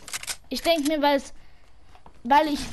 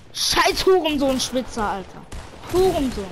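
angry cursing; 2 semitones higher, 5 dB louder than usual. Real, not acted. Cursing at a cheating sniper.

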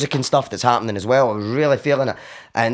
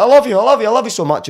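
tearful love; 11 semitones higher, 6 dB louder, faster than usual. Retold or imitated. Confessing love again.

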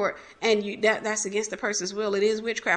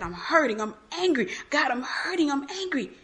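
acted hurt and anger, pitch climbing; retold tearful plea; 3 semitones higher than usual. Woman recalling an honest prayer to God, retold hurt and anger. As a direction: replay a pained cry to God, mildly. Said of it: "I'm just in there crying".

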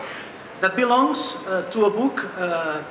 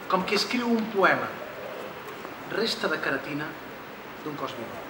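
measured poem reading, phrase by phrase with pauses; short phrases, falling away at the end; poetry recital; 6 dB quieter, faster than usual. Acted. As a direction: read the poem softly toward a hushed close. Reads own poem in Catalan.

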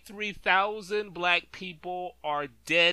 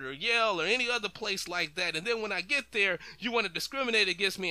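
lightly raised, pleading servile voice; mock subservient slave; 4 semitones higher than usual. Commentator mocks Black folks who please their oppressor, in a mock servile voice. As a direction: fawn over the master in mocking imitation.

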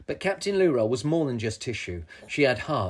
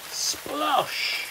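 splash effect; 13 semitones higher than usual. A narrator's reading. Narrator voices splash effect.

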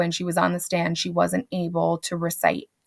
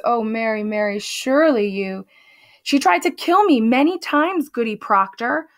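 voiced Mary Warren, rising upset; 3 semitones higher than usual. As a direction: insist she nearly died, growing agitated.

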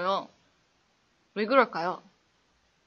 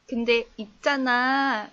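slow, lightly voiced team leader; drawn-out hint of the leader's habit; imitating team leader; slower than usual. Mimicking the team leader's opening line, slow.

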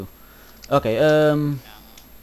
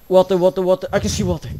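loud, higher, repeated cry for water; urgent; 4 semitones higher, 5 dB louder, faster than usual. Real, not acted. Player on fire looking for water, urgent. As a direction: call it out urgently.

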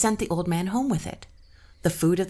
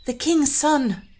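queen in pain; 9 semitones higher, 7 dB louder, slower than usual. Acted. Queen lies under pressure.

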